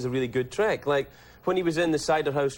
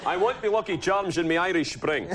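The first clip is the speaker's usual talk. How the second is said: mock Irish accent; 3 semitones higher than usual. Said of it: "He says".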